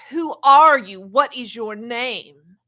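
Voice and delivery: loud, urgent call into the fire; Moses calling out. Retold or imitated. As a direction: shout the question to the burning bush. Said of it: "he said to the entity".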